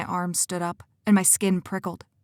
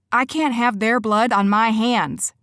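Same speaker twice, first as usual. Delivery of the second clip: slow, louder, anguished cry; cried out; 4 semitones higher, 5 dB louder than usual. Acted. Cora refuses to risk lives, anguished loud cry. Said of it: "I cried".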